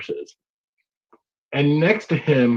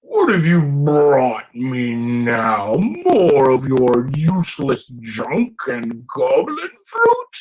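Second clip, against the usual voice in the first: goblin king voice; much slower than usual. Acted. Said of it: "he looks at Gash and goes".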